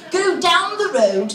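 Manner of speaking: put-on slow, plummy British accent; posh, polite British directions; snotty British guy. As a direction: draw it out like a snooty English gentleman. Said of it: "snotty-nosed British guy who would go".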